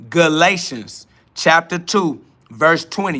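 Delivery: Galatians chapter two said slowly for them to note; slow dictation of the verse; slow, spelled-out repeat. Shown as a demonstration. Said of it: "You got that?".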